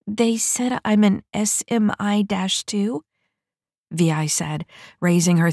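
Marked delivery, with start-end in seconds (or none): 0.1-3.0 timid recruit. Acted. Vi, confused new recruit.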